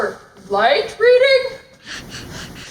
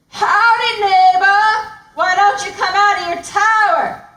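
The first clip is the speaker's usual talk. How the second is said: loud, hammed-up lion calling up to the tower; sly lion calling up to the tower; 4 dB louder than usual. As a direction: bellow a fake-friendly greeting upward.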